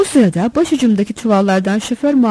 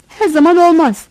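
louder, higher reply from above; smarmy voice; 6 semitones higher, 5 dB louder than usual. A narrator's reading. Assistant butts in from the sacks overhead, smarmy call. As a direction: pipe up with smarmy familiarity. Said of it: "yılışık sesi tepemizden duyuldu".

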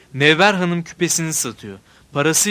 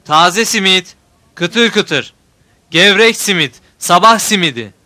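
loud singsong hawker's cry; melodic street vendor shout; 3 semitones higher, 8 dB louder, slower than usual. A narrator's reading. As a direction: shout it like a simit seller. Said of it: "Ben de bağırıyorum onun gibi".

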